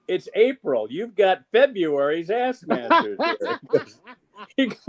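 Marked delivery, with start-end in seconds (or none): 0.1-3.6 higher, drawn-out hailing voice; mock holler to someone far off; calling out. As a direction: call it out slowly, pitched up. Retold calling out across a store.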